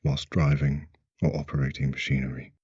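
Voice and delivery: brisk, measured safety notice; disclaimer read. Acted. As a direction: read out a formal warning before the session. Reads a recorded safety disclaimer.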